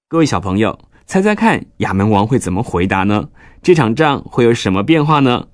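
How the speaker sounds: put-on bright sing-song kids' sign-off; reading to a toddler. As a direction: talk sweetly to little children. Addresses children, signing off.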